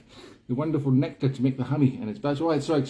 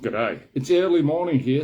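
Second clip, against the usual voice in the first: put-on New Zealand accent, restarted; reset Kiwi accent; 5 dB louder than usual. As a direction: pull the voice back into imitation Kiwi. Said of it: "I've gone to Cockney again".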